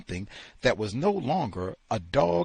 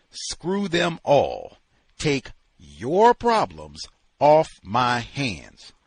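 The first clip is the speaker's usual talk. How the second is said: angry; 6 dB louder, slower than usual. Acted. Angry tirade.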